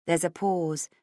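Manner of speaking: usual speaking voice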